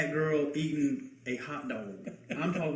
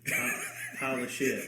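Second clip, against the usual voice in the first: tongue-held mangled words; slurred through a held tongue; holding tongue with fingers; 4 semitones lower, 6 dB quieter than usual. Pretend. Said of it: "Hold your tongue and say that".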